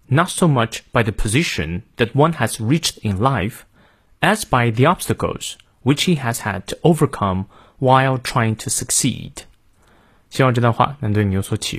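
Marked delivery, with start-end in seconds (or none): 0.1-9.4 careful American model reading for learners; American pronunciation, measured out clearly; American accent. Shown as a demonstration. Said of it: "最后再练一遍美音". (美音示范领读)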